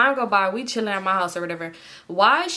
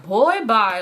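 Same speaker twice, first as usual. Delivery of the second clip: mild mock yell, louder; retold scream; 5 dB louder than usual. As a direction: call it out dismissively, retelling a scream. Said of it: "I just screamed it out the bathroom".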